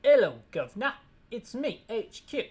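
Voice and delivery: slow, hammed-up British officer; exaggerated British accent, drawn-out words; mock British accent. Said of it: "we can make this guy British".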